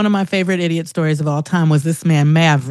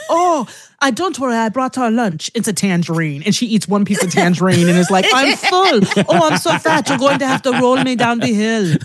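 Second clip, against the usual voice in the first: German mother; 3 semitones higher than usual. Retold or imitated. Imitating TikTok German mother complaining about food, mock dramatic. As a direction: do a lightly voiced, dramatic German mom. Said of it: "this impression of her mother, her German mother".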